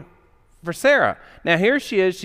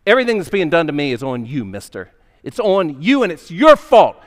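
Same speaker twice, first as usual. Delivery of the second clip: angry accusation; 4 dB louder than usual. Retold or imitated. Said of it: "anger starts to build up".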